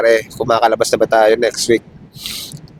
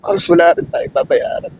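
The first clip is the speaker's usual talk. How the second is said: voice breaking. Real, not acted. Emotional gratitude, voice cracks.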